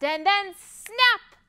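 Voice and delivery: slow build to a high, loud pop; sudden snap. A narrator's reading. Narrator telling of the breaking string, sudden and dramatic. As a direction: stretch the lead-in, then burst on the last word.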